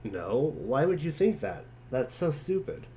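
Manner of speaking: lightly voiced jokey boy. John brushing off his friend's teasing, quick and breezy. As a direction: rattle it off like a cheeky kid. Reads John's chat lines.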